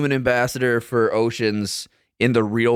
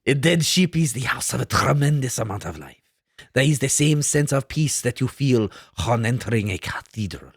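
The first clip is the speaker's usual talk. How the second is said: lightly French Cousteau quote with a laugh; bad French accent. Host quoting Cousteau in a bad French accent. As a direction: read it in a weak French accent. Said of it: "So bad".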